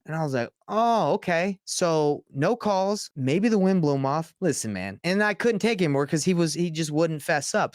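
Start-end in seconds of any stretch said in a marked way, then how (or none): 0.7-4.3 mock sarcastic acceptance. Mocking the worker's excuse.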